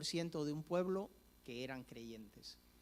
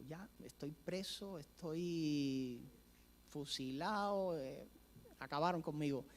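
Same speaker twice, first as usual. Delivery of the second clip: mock despair; slower than usual. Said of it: "del miedo y el nerviosismo que tenía".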